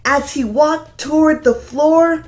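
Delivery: gentle sing-song storybook reading; lilting read-aloud for a class; reading to children. A narrator's reading. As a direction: read it like storytime for little kids. Reads picture book aloud.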